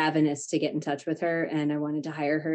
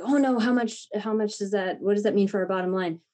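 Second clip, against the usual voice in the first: worried husband; 4 semitones higher than usual. Retold or imitated. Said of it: "would get upset or, or be like".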